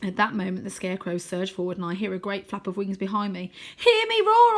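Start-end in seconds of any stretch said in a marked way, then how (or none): 3.8-4.6 loud, high battle cry; yell. A narrator's reading. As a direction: roar it out to scare them. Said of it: "I yell".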